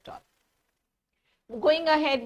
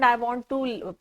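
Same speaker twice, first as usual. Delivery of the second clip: normal talking voice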